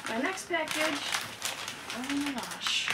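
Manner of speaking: breathless, still panting; words between breaths. Real, not acted. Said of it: "I'm so out of breath".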